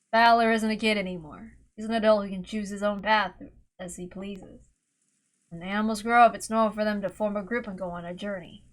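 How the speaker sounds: a hint of quiet regret; lightly voiced regretful man. Rudolph's regretful monologue.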